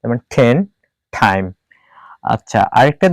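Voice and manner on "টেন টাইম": টেন and টাইম with the T puffed like ঠ; "then, thaim" with an aspirated hard T, not ট. Shown as a demonstration. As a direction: open টেন and টাইম with a burst of air. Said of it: "থ এর মতো উচ্চারণ করতে হবে".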